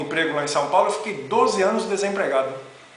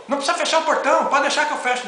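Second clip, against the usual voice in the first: retold shout; 7 semitones higher, faster than usual. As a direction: call it out across the yard like a snapped warning. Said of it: "dá um grito assim". (grito imitado, agudo e alto)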